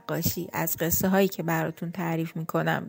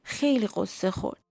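gentle bedtime storytelling voice; story narration; 3 semitones higher than usual. A narrator's reading.

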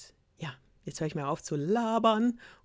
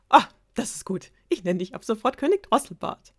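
gleeful; 5 semitones higher, 6 dB louder than usual. Acted. Princess delighted with her insult.

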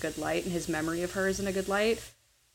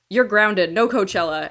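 put-on louder, half-joking dad telling off his kid; mock parent scolding; 2 semitones higher, 7 dB louder than usual. Host quotes Juan scolding his daughter, mock loud scolding. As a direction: bark it like a fed-up father grounding a teen. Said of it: "when he goes".

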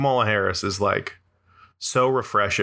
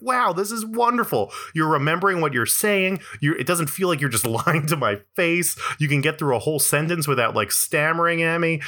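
mock delighted; 5 semitones higher than usual. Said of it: "and it's like".

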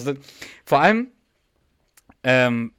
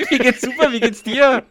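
high, loud, rushed cheery reply; hasty reply; 10 semitones higher, 7 dB louder than usual. Retold or imitated. Imitating his own flustered reply to a stranger, high and loud. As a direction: babble back a greeting to cover a forgotten name. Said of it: "Ich mach dann auch so den Duck".

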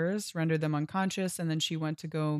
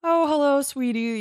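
high, sugary mock-sweet voice; sing-song condescending sweetness; mock sweet captors; 9 semitones higher, 6 dB louder than usual. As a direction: coo it like a patronising captor. Mocking the captors' sweet talk.

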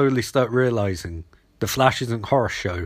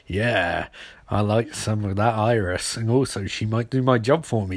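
low, lightly voiced older colleague; scheming newsman; 3 semitones lower, 3 dB quieter than usual. Senior reporter thinking about Iris, low and sly. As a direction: muse to yourself, pitched down. Newspaper man musing to himself.

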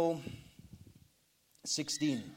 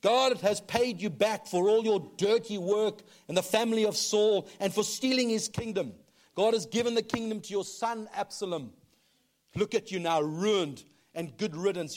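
a hint of a jeering curse, raised pitch; mocking taunt; 4 semitones higher, 3 dB louder than usual. Shimei jeering at the fleeing David, mild mock anger. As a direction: taunt the fallen king. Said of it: "This is a guy shouting at David".

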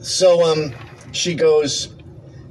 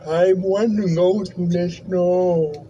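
mock app voice; 6 semitones higher, much slower than usual. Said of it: "you talk into it".

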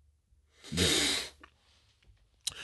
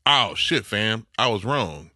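imitating coworker; 3 semitones higher, 3 dB louder, slower than usual. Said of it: "That's his reply".

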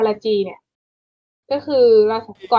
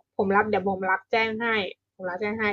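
Dong-sik's understated offer; 6 dB quieter than usual. Retold or imitated. Policeman agreeing to take a father's report, softly understated. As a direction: quietly step in as the obliging policeman. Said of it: "สุดท้ายดงชิกก็บอก".

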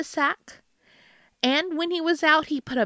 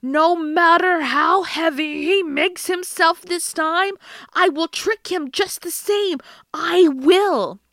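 angry troll; 4 semitones higher, 4 dB louder than usual. Acted. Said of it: "the troll was terribly angry and said".

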